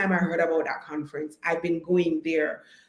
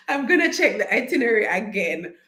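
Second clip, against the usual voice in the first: laughing; 3 semitones higher, 3 dB louder than usual. Real, not acted. Repeats it while laughing.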